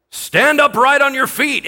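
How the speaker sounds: high, loud scripture shout; shouted command. A narrator's reading. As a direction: call it out as an apostle's command. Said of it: "shouted at him".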